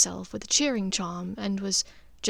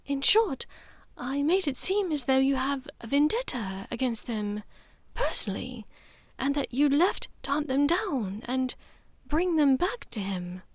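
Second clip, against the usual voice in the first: a hint of a calm, steady mother, a touch higher; Narcissa, lightly voiced; 4 semitones higher than usual.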